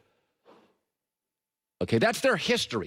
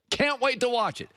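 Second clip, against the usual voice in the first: higher, eager repeat of the line; gleeful anticipation, pitched up; eager relish; 8 semitones higher than usual. Shown as a demonstration. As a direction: say it again, really savouring it.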